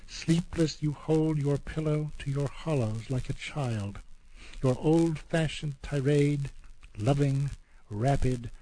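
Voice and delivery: slow, measured reading of a poem; a poet's slow recital, weighing every image. Acted. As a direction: read each line deliberately, letting it land. Reads Lowell's poem Man and Wife.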